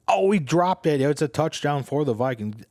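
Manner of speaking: high, loud opening cry easing off into the call; excited play-by-play call. Retold or imitated. Host re-enacting Paul Allen's touchdown call, excited. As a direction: imitate an announcer's loud, high burst of excitement. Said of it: "and he was like".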